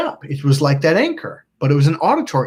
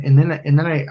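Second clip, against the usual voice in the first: ordinary talk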